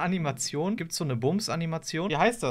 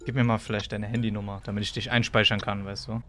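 sleazy suitor voice; 5 semitones lower than usual. Acted. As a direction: play the creepy client low. (schmieriger Freier)

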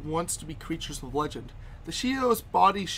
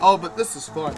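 genuinely delighted; 6 dB louder than usual. Real, not acted. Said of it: "Not being sarcastic".

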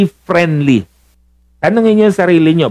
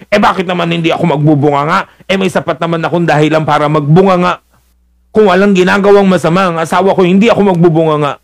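fast, defensive wife rattling off excuses; 3 semitones higher, faster than usual. Acted. Wife defending her nagging to the preacher, fast and defensive. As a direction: justify the nagging quickly. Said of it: "Sasabihin nyo".

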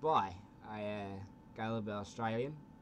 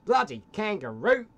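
shouting; 8 semitones higher, 11 dB louder than usual. Pretend. Australian shouting at kangaroo.

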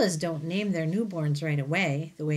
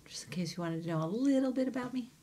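whisper; 5 semitones higher, 5 dB quieter, faster than usual. Pretend. Teacher's whispered aside.

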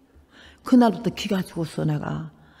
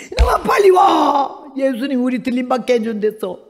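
urgent mother's call; 4 semitones higher than usual. Retold or imitated. 아들을 급히 부르는 어머니.

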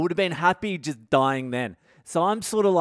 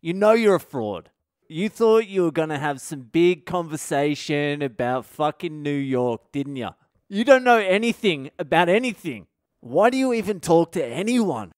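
self-berating. Retold or imitated. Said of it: "my brain was going".

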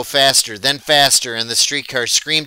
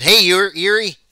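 calling out; 8 semitones higher, 5 dB louder than usual. A narrator's reading. Boy calls back while running.

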